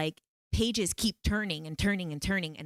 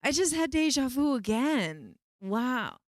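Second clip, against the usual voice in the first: amazed; 6 semitones higher than usual. Retold or imitated. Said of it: "And I'm like".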